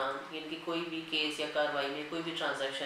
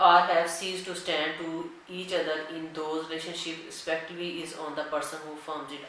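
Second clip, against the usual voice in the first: dictating a legal section to students at x0.3; slow, deliberate reading of the act; slow statute dictation; 3 dB louder, much slower than usual. Acted. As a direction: read the law word by word, very slowly. Reads the statute text aloud.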